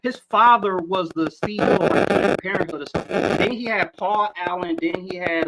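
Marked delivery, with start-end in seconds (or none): 3.4-5.5 phone buzzing over the mic; buzzing phone interference. Real, not acted. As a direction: audio cutting out from a nearby phone. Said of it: "your audio is cutting out real, real bad, like somebody calling you".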